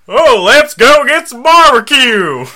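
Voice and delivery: high, loud, drawn-out put-on Chinese accent; slow, hammed-up Chinese-accent send-up; mock Chinese accent. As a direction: stretch it out in a caricature Chinese accent. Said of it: "Chinese people are like".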